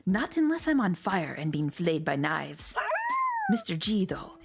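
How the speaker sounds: lightly put-on foreign accent for the wife; a hint of a German accent; wife's accent. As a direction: play the wife in a playful German-ish accent. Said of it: "Sorry for my terrible accent skills".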